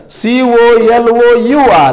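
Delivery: slow spelling dictation; spelling out slowly. Shown as a demonstration. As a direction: spell each letter apart. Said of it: "कलर".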